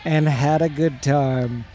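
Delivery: preaching. Acted. Mock scripture reading.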